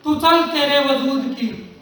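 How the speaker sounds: measured, declaimed verse with long pauses; rousing verse, falling away on the refrain; poem recitation. Acted. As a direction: recite it deliberately, letting each line's ending sink. Recites Harivansh Rai Bachchan poem.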